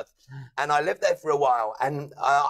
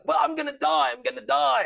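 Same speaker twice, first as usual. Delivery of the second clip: higher, whiny mock panic; mock panicked whine; 6 semitones higher, faster than usual. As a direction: whimper it like a scared little kid, hammed up. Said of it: "And it was just like".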